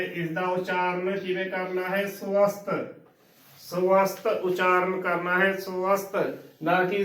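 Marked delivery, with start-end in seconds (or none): 2.1-6.2 ਸਵਸਥ said su-ast, short u after the first ਸ; correct pronunciation. Shown as a demonstration. Teacher models the word for learners, ਸਵਸਥ as su-ast.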